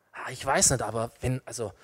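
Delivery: low, soft, broken-off phrases; hesitant. Acted. Eva answering the snake, softly hesitant. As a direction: falter quietly, unsure what to answer.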